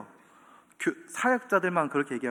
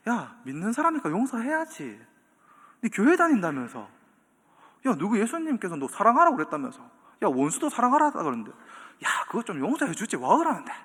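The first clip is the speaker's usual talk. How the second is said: preachy nagging; 3 semitones higher than usual. Retold or imitated. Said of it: "우리한테 이런 겁니다".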